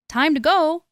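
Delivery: high, eager little voice; little goat. A narrator's reading. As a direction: call to the others like a small goat. Little goat speaks in story.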